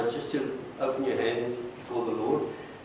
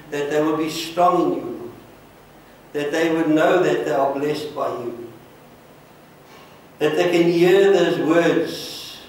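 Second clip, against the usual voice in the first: earnest pastoral prayer, swelling then settling; fervent prayer. Acted. Pastor praying over the people at the altar, fervent. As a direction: pray over them with rising fervour.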